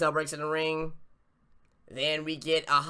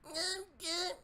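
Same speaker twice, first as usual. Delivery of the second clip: mock reply; 11 dB quieter than usual. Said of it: "He's like".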